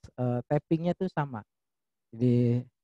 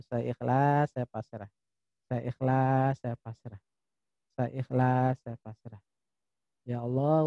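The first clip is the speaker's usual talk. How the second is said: prayer. Acted. Leads guided prayer.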